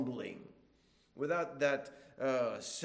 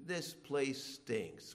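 grumbling; 4 dB quieter, much slower than usual. Retold or imitated. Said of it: "that attitude".

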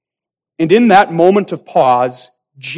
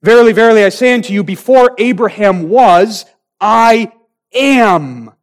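louder, raised ringing declaration; solemn proclamation; 5 semitones higher, 5 dB louder than usual. Acted. Jesus declaring himself before the Jews, loud and ringing. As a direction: proclaim it to the crowd. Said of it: "Jesus had said".

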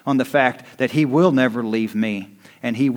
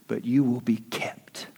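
whispered assurance; 6 dB quieter than usual. Acted. Hushed assurance after build.

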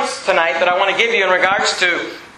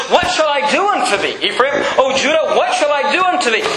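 higher, insistent exasperation; frustrated; 4 semitones higher than usual. Acted. Preacher voicing God to Ephraim and Judah, frustrated. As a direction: press the question with rising frustration. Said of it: "you can hear the frustration".

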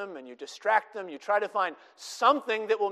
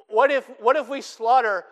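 louder, higher, rising alarm; anxious exclamation; 4 semitones higher, 11 dB louder than usual. Retold or imitated. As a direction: blurt it out as a worried question. Moses doing anxious catering math.

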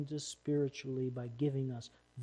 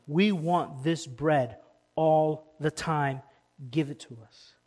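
greedy crowd voice; 8 dB louder, slower than usual. Retold or imitated. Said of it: "And what's their response?".

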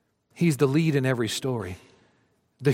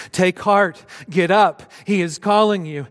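calling out; 5 semitones higher, 6 dB louder than usual. Acted. Crowd calls the blind man.

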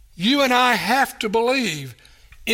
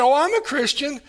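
tennis partner; 4 semitones higher than usual. Retold or imitated. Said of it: "he said".

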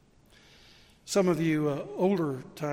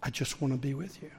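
gentle pastor; 4 dB quieter, faster than usual. Retold or imitated. Pastor's tender answer.

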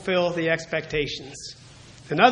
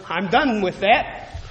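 put-on confident child; slower than usual. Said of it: "As I might say to my mother".

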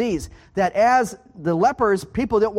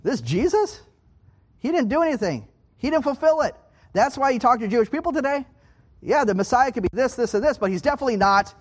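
higher-pitched, dismissive objection; acted-out protest, pitched up; voicing dismissive doubters; 5 semitones higher than usual. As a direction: argue against him as an unconvinced skeptic. Voicing people who reject Jesus.

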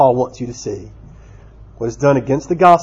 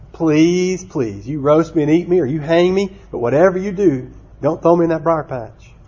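mock pleading; 3 semitones higher than usual. Trapped rabbit begs Brer Fox, mock pleading.

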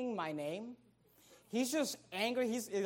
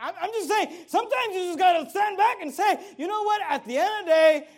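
big preacher shout, much higher and louder; 10 semitones higher, 12 dB louder than usual. Acted. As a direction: belt it to the back row. Preacher shouts the imagined declaration.

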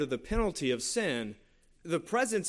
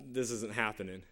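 frustrated; 6 semitones lower, 6 dB quieter than usual. Retold or imitated. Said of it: "I'm still frustrated".

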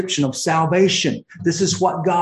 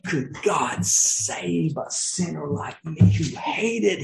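voicing Paul. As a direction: let Paul marvel aloud, then drop to a whisper. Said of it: "He's like".

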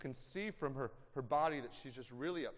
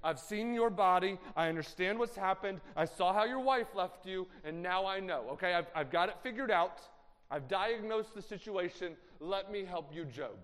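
louder, higher, smug friend explaining everything; know-it-all Eliphaz; 6 semitones higher, 9 dB louder than usual. Acted. Eliphaz lecturing the suffering Job, loud and smug. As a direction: lecture him like you've solved it all. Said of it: "Eliphaz describing to Job".

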